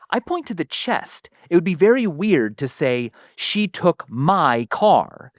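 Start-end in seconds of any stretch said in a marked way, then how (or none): 3.4-5.3 slow sentence with "my" held long; stress on my. Shown as a demonstration. Repeating the example to a listener, "my" stressed and drawn out. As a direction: linger on the word "my". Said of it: "I'm emphasizing the word mine".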